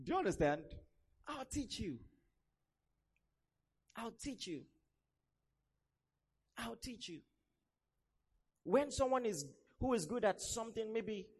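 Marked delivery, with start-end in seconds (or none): 1.3-7.2 gentle reassurance. Retold or imitated. Repeats God's promise gently.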